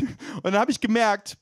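ordinary talk

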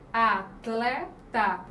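"atleta" stretched out slowly, "a-tle-ta"; slow syllables. Shown as a demonstration. Teacher slowly sounding out atleta for the class. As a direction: draw out "atleta" to show the tl cluster. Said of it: "o encontro aqui consonantal".

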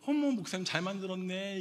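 high-pitched mock admiration; admiring onlooker. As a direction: gush like an impressed churchgoer. Acts out admirers praising his craft.

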